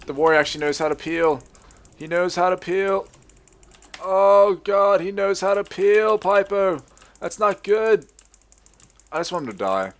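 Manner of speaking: high, loud alarm mid-game; panicked dismay. Real, not acted. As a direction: wail it high as the fight slips away. Dismay during tense fight.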